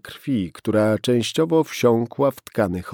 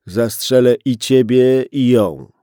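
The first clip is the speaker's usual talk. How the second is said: loud, furious threat; angry threat; 2 semitones higher, 9 dB louder than usual. Acted. Gunman threatening to shoot the policeman and girl, loud anger. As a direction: bark it at him.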